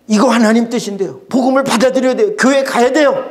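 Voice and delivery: a hint of losing your temper at family; mild temper. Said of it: "하고 성질 부려봐야". (가족에게 살짝 성질내듯)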